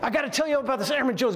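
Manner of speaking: bursting to tell the colonel everything; fired up. Retold or imitated. Eager airman calls out to his colonel, all fired up. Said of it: "He's pretty fired up".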